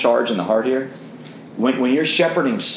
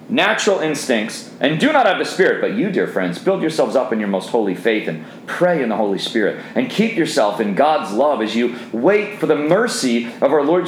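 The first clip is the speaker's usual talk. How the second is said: scripture reading. Acted. Preacher reads on to the men, steady and plain. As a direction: read the passage plainly through to the end.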